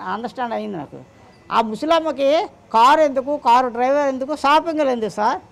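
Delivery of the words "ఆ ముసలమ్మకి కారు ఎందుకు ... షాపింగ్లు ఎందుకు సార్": indignant outburst. Real, not acted. Indignant about mother-in-law's spending.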